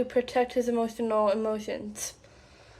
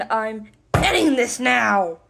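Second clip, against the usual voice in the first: mock angry cutoff; 4 dB louder than usual. Quoting partner ending the argument.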